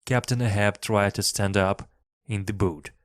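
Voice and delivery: usual speaking voice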